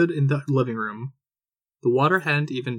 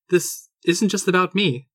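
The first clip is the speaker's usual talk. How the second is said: raised voice; 5 semitones higher than usual. Acted. Wife raising her voice at her leaving husband. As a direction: raise your voice at him, mid-argument. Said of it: "raising her voice".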